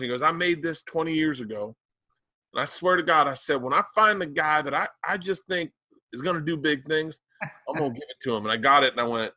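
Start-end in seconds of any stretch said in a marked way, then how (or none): 0.2-3.3 put-on Southern accent. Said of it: "I wanna do it in his accent". 3.6-8.4 put-on Southern accent. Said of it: "I wanna do it in his accent".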